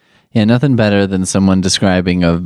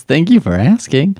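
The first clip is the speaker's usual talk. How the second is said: mocking echo; 7 semitones higher than usual. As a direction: mimic the cheesy host line with a sneer. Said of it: "This is really horrible".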